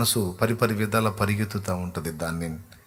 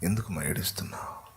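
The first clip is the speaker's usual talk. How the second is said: tender whisper; 7 dB quieter than usual. Acted. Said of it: "అంట".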